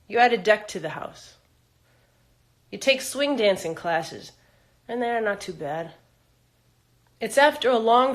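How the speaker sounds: measured spoken-word storytelling; poem recital. Acted. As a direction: recite it phrase by phrase with deliberate pauses. Reads own poem aloud.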